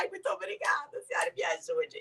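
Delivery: play-acted crying, breathy and pleading through tears. Retelling hugging older women at the supermarket: imitating herself crying. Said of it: "comecei a abraçar elas e a chorar".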